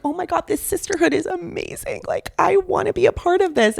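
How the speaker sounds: high, gushing excitement. Retold or imitated. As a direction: gush like a starstruck new recruit. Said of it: "I was like".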